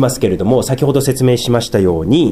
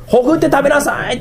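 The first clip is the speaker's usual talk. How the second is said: lightly voiced God; 12 semitones higher than usual. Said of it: "と神様は言われたんです".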